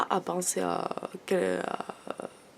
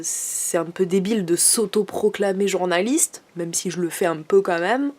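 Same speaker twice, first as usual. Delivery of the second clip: southern French accent slipping in; relaxed southern French accent; 5 dB louder than usual. Real, not acted. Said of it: "pourquoi je prends un accent du sud, là?".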